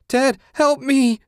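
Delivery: slow, high-pitched scream for help. A narrator's reading. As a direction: scream desperately, drawing the words out. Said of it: "Susan screamed".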